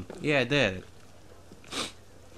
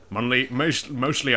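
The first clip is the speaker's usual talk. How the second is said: lightly British-accented muttered excuse; slipped British accent. Real, not acted. Streamer drifting unawares into a British accent while excusing their play. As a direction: slip into a slight British accent. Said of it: "I slipped into a British accent".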